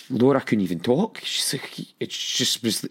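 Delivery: normal talking voice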